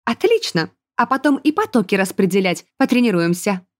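ordinary delivery, nothing marked

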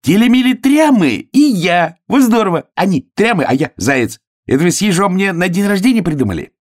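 loud, very high delighted hare; elated high-pitched cries; joyful shouting. A narrator's reading. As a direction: burst out gleefully at the top of the voice. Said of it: "и вдруг радостно закричал".

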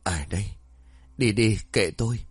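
put-on drunk, slurring the words; slurred drunk voice. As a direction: slur it like he's had too much. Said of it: "giọng lè nhè".

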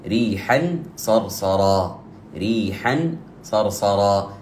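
ريحا صرصرا drawn out slowly, tanween hidden with nasal hum; slow recitation with ikhfa. Shown as a demonstration. Teacher recites the example slowly. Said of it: "حرف من حروف الإخفاء".

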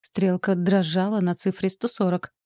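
ordinary delivery, nothing marked

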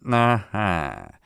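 long, drawling realisation; drawn out. A narrator's reading. Detective learning it was a prank, drawing it out. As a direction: stretch the word right out. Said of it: "протянул Эркюль Пуаро".

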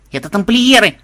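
high, loud happy announcement; joyful. A narrator's reading. Granddaughter spotting the Templars, joyful and loud. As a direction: announce it with delight. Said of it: "радостно сообщила она".

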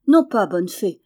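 Non pas lancé fort et vif; crie-le vivement, sans lâcher prise; lively cry. A narrator's reading. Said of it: "s'écria Jeannin vivement". (s'écrier vivement)

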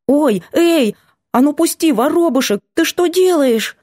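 high, startled squeal of protest. Acted. Girl protesting as Vanya drags her off, startled. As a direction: yelp as he grabs her.

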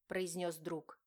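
ordinary delivery, nothing marked

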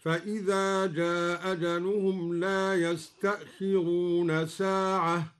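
"جاء أجلهم" run together as jaa-ajaluhum with one hamza; "جاء أجلهم" with one glottal stop and brief madd; dropped hamza, short vowel. Shown as a demonstration. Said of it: "بإسقاط الهمزة وله المد والقصر".

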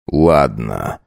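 slow, level husband voice; measured and unbending; Blair, cold husband. Acted. Husband calmly announces a decision to his wife.

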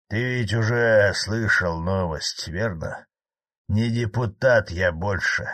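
slow, hurt admission; pained. Acted. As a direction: say it with pain, slowly. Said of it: "с болью произнёс".

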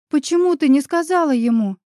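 sudden heated reproach to a friend; flaring up. Acted. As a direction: snap at her in frustration. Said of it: "вспылила я".

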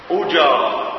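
أجارة with u on the first letter, "ujara"; أجارة first vowel u, not a or i; with damma. Shown as a demonstration. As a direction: say أجارة opening with a short u. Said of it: "يعني تقول إيه؟ ... الضم".

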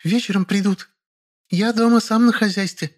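put-on high child voice, important tone; little boy playing the man of the house; proud kid voice; self-important boy. A narrator's reading. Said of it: "важно добавил".

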